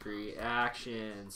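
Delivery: slow, low, monotone robot. Acted. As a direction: drone it out like a robot. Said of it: "Talking like a robot".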